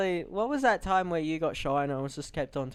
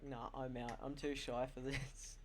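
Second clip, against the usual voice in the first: shy mumble; 3 semitones lower, 13 dB quieter than usual. Retold or imitated. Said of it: "he's like".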